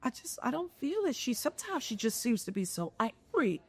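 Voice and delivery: imitating a critic's condescending hedge; mock doubter. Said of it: "depending on who you're talking to".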